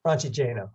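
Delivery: Francigena with a long, stressed GE. Shown as a demonstration. Hiker repeating the host's version, Francigena stressed on GE. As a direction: say Francigena as fran-chi-JAY-na. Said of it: "I've always heard Francigena".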